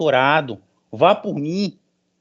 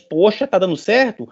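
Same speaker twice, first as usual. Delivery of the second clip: mock surprise; 5 semitones higher than usual. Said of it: "vão começar a perceber o seguinte".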